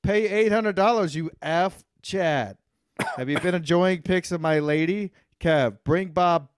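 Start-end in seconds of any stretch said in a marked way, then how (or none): 0.0-2.6 loud, high jeering call to Chad; mock heckle. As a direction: yell it like a heckler in the stands. Heckling a viewer in chat.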